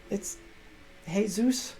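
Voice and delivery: Jesus said "hay-SOOS", with an H sound; Spanish pronunciation. Retold or imitated. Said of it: "J is an H".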